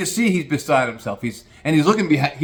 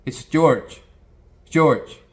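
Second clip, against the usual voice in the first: Central American jockey insisting. Retold or imitated. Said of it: "He goes".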